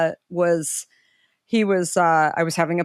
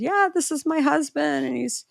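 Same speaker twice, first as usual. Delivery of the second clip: higher, bright-eyed introduction of the husband; retold eager pitch at the store; eager retelling; 10 semitones higher than usual. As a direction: pitch up, keen to explain. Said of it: "And I said".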